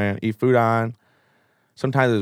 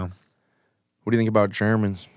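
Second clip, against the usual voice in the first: slow conspiratorial whisper; 8 semitones lower, 5 dB quieter, slower than usual. Real, not acted. Asking a friend about Germans in a slow whisper. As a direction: lean in and whisper it slowly.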